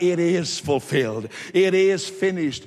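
mild, emphatic retold shout. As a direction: proclaim it firmly without really yelling. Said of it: "And he shouted".

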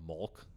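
mulk, with the vowel of hulk; milk turned into mulk; rare pronunciation. Shown as a demonstration. Host quoting a version heard once, mulk for milk. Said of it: "So I've heard once".

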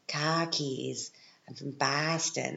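badly faked Boston accent on drawn-out vowels; attempted Boston accent, not quite landing. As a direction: have a clumsy go at a Boston accent. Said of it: "that's not the right accent".

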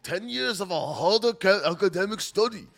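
hammed-up Japanese-style proverb voice; mock Japanese accent. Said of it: "That's Japanese, though".

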